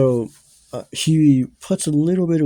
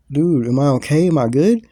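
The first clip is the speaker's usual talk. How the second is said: higher, louder anxious questions; flipping out; 3 semitones higher, 6 dB louder than usual. Retold or imitated. Teller asking friend after the trip, flipping out. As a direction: act out worried pleading for reassurance. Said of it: "I started flipping out".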